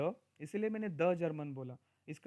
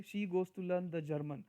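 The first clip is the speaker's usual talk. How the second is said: slow example read; much slower than usual. Shown as a demonstration. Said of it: "कोई इंसान ऐसा भी बोल सकते हैं".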